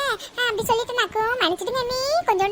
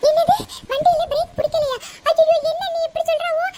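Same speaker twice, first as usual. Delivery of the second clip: frightened shock; 4 semitones higher, 3 dB louder than usual. Acted. Hears brakes failed.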